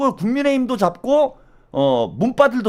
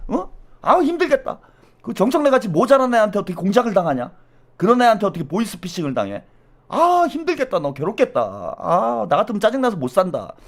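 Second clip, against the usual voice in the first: needling a friend with feigned sympathy; mock-sympathetic teasing. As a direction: rub it in with fake pity. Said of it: "이런 거 하면서 약 올린단 말이야".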